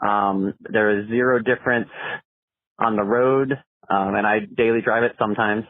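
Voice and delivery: phone message playback; recorded caller on the line; voicemail. Real, not acted. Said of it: "let's see what the caller has to say".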